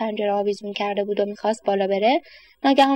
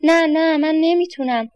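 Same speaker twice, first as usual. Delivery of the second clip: put-on anxious boy; 5 semitones higher, 3 dB louder, slower than usual.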